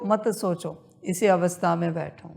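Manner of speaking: normal talking voice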